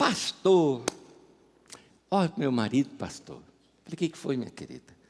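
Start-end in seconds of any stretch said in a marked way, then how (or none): 0.0-3.4 put-on nordestino accent, far deeper and drawn out. A pastor repeats an old true story of a lady coming to him, imitating her Northeastern Brazilian accent. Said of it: "ela tinha um sotaque nordestino tão gostoso".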